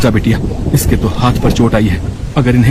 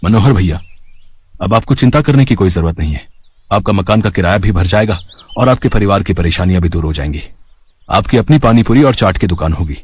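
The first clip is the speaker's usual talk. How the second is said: lower, steady reassuring man's voice; grateful husband; 5 semitones lower than usual. Acted. Grateful husband reassuring Manohar about the rent, lower steady voice. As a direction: promise him help in a lower voice.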